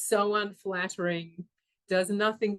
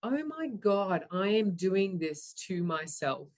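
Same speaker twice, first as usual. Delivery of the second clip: dawning realisation. Retold or imitated. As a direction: spell it out to yourself, pausing between phrases. Acts out slow realisation.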